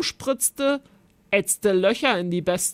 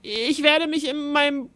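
sobbing; 6 semitones higher than usual. A narrator's reading. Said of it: "schluchzte Griesbart".

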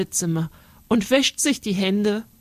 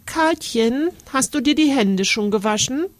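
grandma calling from the kitchen; 6 semitones higher than usual. Acted. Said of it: "ruft Oma aus der Küche".

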